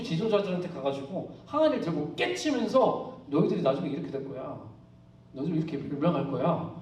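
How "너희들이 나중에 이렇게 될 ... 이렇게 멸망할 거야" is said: low-pitched, lightly voiced prophet; prophet's warning. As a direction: pronounce doom in a lowered voice. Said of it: "이렇게 시키는 거예요". (낮은 목소리로 예언을 흉내 내듯)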